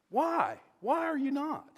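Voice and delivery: high-pitched, exasperated demand; indignant questioning. Retold or imitated. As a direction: press them for an answer, pitch up high. David challenges the idle army.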